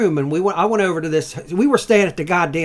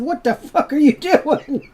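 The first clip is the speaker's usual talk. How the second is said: much higher, louder, slow outraged cry; retold outraged yell; 12 semitones higher, 4 dB louder, slower than usual. Hungover guest yelling back at motel lady, mock outrage. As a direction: stretch out the indignant protest. Retold protest while being hit.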